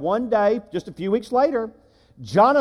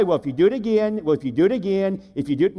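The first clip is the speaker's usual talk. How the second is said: bluffing parent; faster than usual. Retold or imitated. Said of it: "You don't say".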